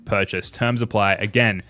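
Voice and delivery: upbeat sponsor read voice. Acted. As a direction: sell it like a radio ad. Sponsor ad read, noticed after.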